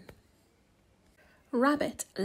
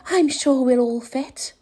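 confident rabbit; 8 dB louder than usual. A narrator's reading. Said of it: "replied Rabbit".

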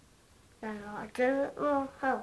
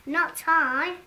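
shouted refusal; 4 semitones higher, 10 dB louder than usual. Acted. An animal refuses loudly.

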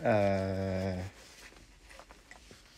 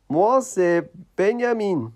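high puppet voice; 6 semitones higher, 4 dB louder than usual. Acted. Puppet introduces himself.

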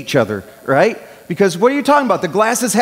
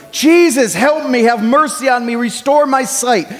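calling out to Jesus, raised voice; a pleading call, moderately raised; mock yell; 3 semitones higher than usual. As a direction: cry out for help across a crowd. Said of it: "Bartimaeus was yelling".

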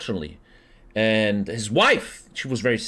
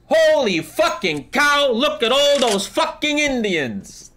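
Custer's last shout; 13 semitones higher, 3 dB louder than usual. Acted. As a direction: bellow it like a general seeing the horde. Custer's final words punchline.

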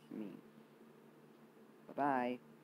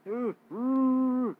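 surprised squeal; 11 semitones higher, 12 dB louder than usual. Real, not acted. Near miss.

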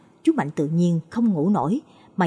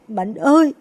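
higher, louder grieving cry; mother wails to her son again; wailing call; 3 semitones higher, 4 dB louder than usual. Acted. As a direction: call the dead son's name in anguish. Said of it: "gào lên".

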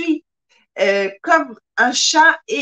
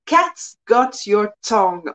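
English accent; 3 semitones lower than usual. Shown as a demonstration. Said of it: "en anglais".

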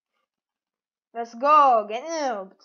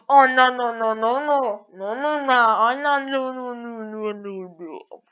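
panicked, fading; 2 semitones lower, 4 dB louder than usual. Real, not acted. Player in danger in a game, panicked. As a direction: run of no's starting loud and dying away.

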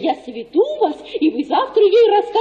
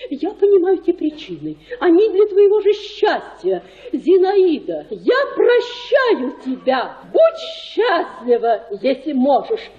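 noble lover's farewell; 3 semitones lower than usual. Retold or imitated. Matchmaker acting out the suitor's farewell to Zinaida, solemn and low. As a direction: play the noble self-sacrificing suitor, hushed and grand. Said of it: "вы пришли бы к ней и сказали".

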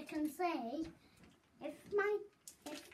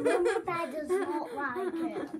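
laughing, much louder and higher; 6 semitones higher, 13 dB louder, slower than usual. Real, not acted. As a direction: laugh through the words. Laughing while eating sour candy.

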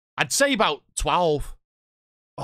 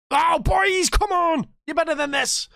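high, louder pleading; urging the team; 12 semitones higher, 3 dB louder, slower than usual. Real, not acted. Manager begging his players to do better.

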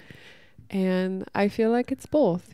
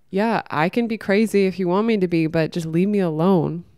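louder, emphatic acted retort; bold defiance; 5 dB louder than usual. Wild women telling men to back off, boldly defiant. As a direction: push it out firmly, standing your ground.

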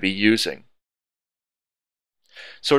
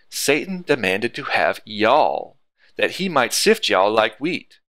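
slow, easy Texan reading of scripture; Texan accent; slower than usual. Shown as a demonstration. Teacher reading the verse as if back in Dallas, light Texan accent. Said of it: "read this in our nice Texan voice".

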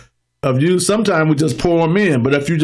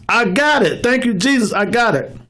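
higher-pitched eager convert; acted gladness; 4 semitones higher than usual. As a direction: imitate a new believer's quick gladness. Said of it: "immediately receive it with gladness".

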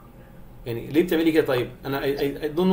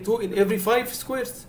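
slow, higher, drawn out, stressing five; slow emphasis; 7 semitones higher, much slower than usual. Shown as a demonstration. Teacher repeating the rule slowly for kids. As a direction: spell it out word by word. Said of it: "teacher stresses the key phrase".

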